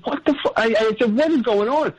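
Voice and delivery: mock-startled outburst at normal volume; retold alarm. Retelling his alarmed reaction to abduction.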